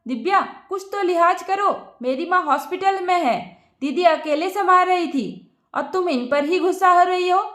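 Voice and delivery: mild angry rebuke at his wife; scolding angrily. Acted. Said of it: "Subhajit Divya पर बरस पड़ा". (हल्का गुस्से में डाँटना)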